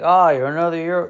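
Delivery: a hint of a folksy old colonel; mock Southern gent, only a touch put on; colonel impression. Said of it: "this is my colonel impression".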